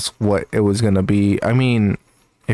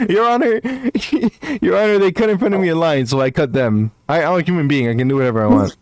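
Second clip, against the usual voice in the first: laughing mock defence; 6 semitones higher, faster than usual.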